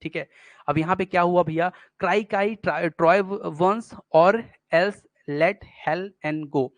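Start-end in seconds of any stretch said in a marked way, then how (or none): 2.0-6.7 "Cry, cry, Troy burns" slowly, each word its own heavy beat; stressed syllables in a row. Shown as a demonstration. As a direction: stretch "else let Helen go" word by word. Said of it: "ये सब बड़े बड़े आए". (हर शब्द पर ज़ोर देकर धीमा पाठ)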